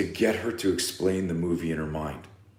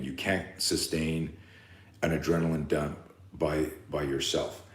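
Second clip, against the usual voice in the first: slower and softer, each word weighed; slow, deliberate repeat; 5 dB quieter than usual. Shown as a demonstration. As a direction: lay out You can't sustain word by word. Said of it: "I'll say that again".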